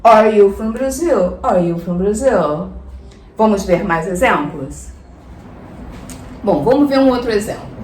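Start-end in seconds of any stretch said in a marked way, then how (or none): 0.0-2.7 "Brazil" nudged up a little at the end; rising question intonation. Shown as a demonstration. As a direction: ask it with a slight lift on "Brazil". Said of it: "dar uma entonaçãozinha na pergunta pra cima".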